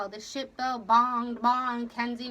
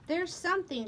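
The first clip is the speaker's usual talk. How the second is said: higher-pitched insistence; insistent; 6 semitones higher than usual. A narrator's reading. Wife sure something is hidden, insistent. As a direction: press the point. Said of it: "she insisted".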